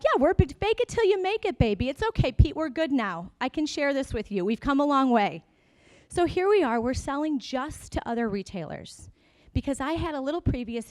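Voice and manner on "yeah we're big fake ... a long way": mock Nordstrom buyer. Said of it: "Nordstrom was like".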